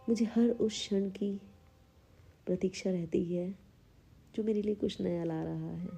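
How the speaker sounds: measured affirmation delivery with long pauses; unhurried meditation-guide reading; guided affirmations. Acted. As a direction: state each affirmation calmly, leaving room to repeat it. Leads guided self-esteem affirmations.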